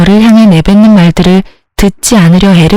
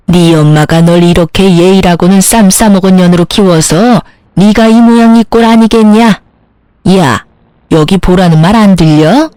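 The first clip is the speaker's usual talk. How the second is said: lightly acted scolding, no real shout; angry mother-in-law's tirade. A narrator's reading. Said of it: "열받은 시모가 고래고래 고함을 지르더군요".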